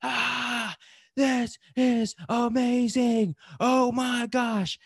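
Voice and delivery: high, slow, thrilled cry of wonder; a mock skydiving scream, pitched high and drawn out; retold ecstatic scream. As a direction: relive the freefall rush, voice soaring up. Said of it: "I just remember screaming".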